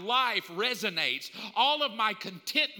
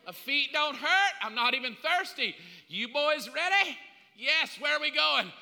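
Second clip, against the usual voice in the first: bright call to hit the road; upbeat disciples; 5 semitones higher than usual. Acted. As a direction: disciples rallied and ready to go, eager and higher. Disciples cheerfully setting off.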